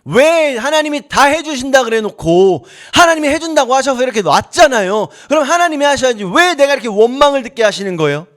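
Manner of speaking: acted, aggrieved remonstrance; arguing with God. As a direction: take God to task, pressing each complaint. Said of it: "모세가 하나님께 따지는 겁니다".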